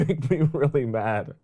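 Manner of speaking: ordinary talk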